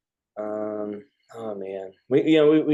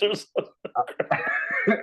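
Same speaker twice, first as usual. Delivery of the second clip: slow, much higher put-on voice repeating the line; mock echo; slower than usual. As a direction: parrot it back in a silly falsetto. Echoing friend's grim joke.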